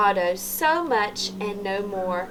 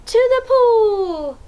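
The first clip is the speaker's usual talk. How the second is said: put-on higher, louder, slow shout for kids to copy; yell demo; 12 semitones higher, 7 dB louder, slower than usual. Shown as a demonstration. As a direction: yell it with them. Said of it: "Can you yell that too?".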